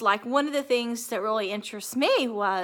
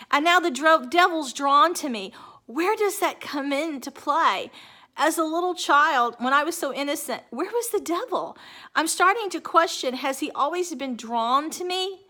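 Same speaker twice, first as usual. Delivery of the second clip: higher, pleading questions, voice rising; distressed; 5 semitones higher than usual. Real, not acted. Troubled speaker asking where evil came from, higher and distraught. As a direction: asks why the devil came, pitch climbing.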